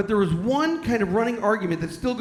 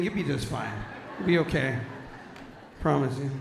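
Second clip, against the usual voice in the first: softly reassure, trailing lower; tender, quiet mock comfort; mock consoling; 6 semitones lower, 6 dB quieter than usual. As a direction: soothe them gently, tongue in cheek.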